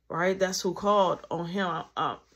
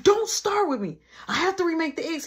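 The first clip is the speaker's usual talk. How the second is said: stressed near tears; 11 semitones higher, 3 dB louder than usual. Retold or imitated. Stressed at little brother.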